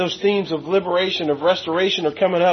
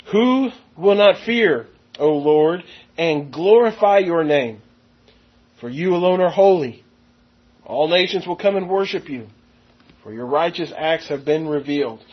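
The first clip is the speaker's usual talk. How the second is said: measured, solemn scripture reading. Acted. Preacher reading the song of the Lamb to the congregation, solemn. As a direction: read the song of the Lamb with weight. Rereads the passage slowly.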